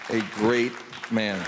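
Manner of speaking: sarcastic repeat of a great man; ironic praise. Acted. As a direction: say it like a sarcastic salute.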